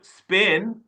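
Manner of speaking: "Spain" in an Asian accent, with a pure short vowel and rising end. Shown as a demonstration. Coach showing the accented take, "Spain" in an Asian accent. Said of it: "with my Asian accent".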